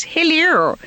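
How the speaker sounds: high posh stage hello; posh Cynthias. Acted. Other Cynthias heard from under the stage, high and posh. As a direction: sing out high like a posh auditionee. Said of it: "all these other Cynthias".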